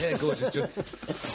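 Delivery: slow drawl. Pretend. Drawn-out mock Cockney.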